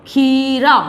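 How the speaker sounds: खीरा with a stretched, firm first vowel; long ee. Shown as a demonstration. Teacher repeating the word to write, खीरा with long ee. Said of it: "इस तरह से आप शब्द का उच्चारण".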